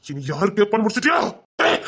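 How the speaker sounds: shouted accusation; villain shouting at the man who wronged him; angry shout. Acted. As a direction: yell it at him. Villain confronting betrayer.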